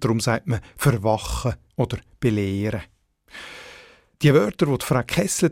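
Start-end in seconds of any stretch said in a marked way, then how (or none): 0.8-2.8 verwachen and belehren stressed after the prefix; unstressed prefix. Shown as a demonstration. Editor giving examples, verwachen and belehren with unstressed prefixes. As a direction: keep ver- and be- light in verwachen, belehren. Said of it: "werden meistens nicht betont".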